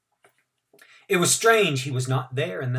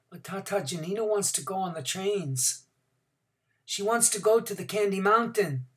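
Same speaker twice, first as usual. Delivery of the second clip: put-on child protesting; 7 semitones higher than usual. A narrator's reading. Child answers his father.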